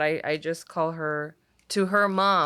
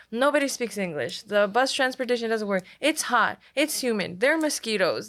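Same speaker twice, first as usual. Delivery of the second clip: higher, brisk list of gripes; mock griping, pitched up; imitated complaining; 5 semitones higher, faster than usual. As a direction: rattle off grievances as mom would. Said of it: "her letters are complaining".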